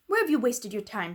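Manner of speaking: sharp, stern headmistress demand; lightly voiced stern Miss Minchin, scolding. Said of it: "she demanded".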